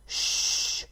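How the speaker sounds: whispered shush; hushing shh. A narrator's reading. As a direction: hiss a quick shush. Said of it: "said the fox loudly".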